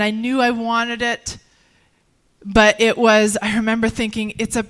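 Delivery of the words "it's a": slow, raised and louder, weighed down by the choice; a retold inner cry of frustration, slow and strained; frustrated. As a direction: spell out both paths in despair, higher and louder. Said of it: "I remember being so frustrated".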